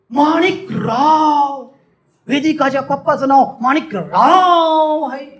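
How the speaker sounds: high, stretched-out amazement; exaggerated astonishment. Shown as a demonstration. Speaker hears the name of Vedika's father, hammed-up astonishment. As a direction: blow the name up into a huge wonder. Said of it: "एखाद्या गोष्टीला बडून चढवून सांगणे".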